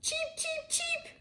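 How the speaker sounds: tiny squeaky high chirps, soft; high chick cheeps. Acted. Newly hatched chicks peeping softly from the nest. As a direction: peep like newborn chicks.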